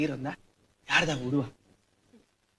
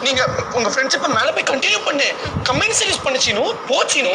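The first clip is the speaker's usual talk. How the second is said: mock pleading girl; 6 dB louder than usual. Mocking the dead woman's plea.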